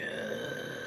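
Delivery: grudging unvoiced uh; a kid dodging chores; reluctant kid. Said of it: "like how a kid don't wanna do dishes".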